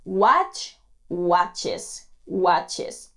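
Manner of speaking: "watches" with a clear extra "es" syllable; "Watch" then "watches"; added ES syllable. Shown as a demonstration. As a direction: say "watches" as wat-ches. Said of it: "pronunciando la E S a continuación".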